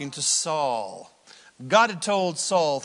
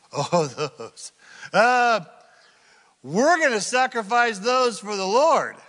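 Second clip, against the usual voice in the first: sheepish excuse; 7 semitones higher, 6 dB louder, slower than usual. Retold or imitated. Saul makes an excuse about the sheep.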